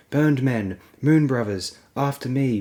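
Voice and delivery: rally them to follow you; shout. Acted. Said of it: "Tyrion shouted".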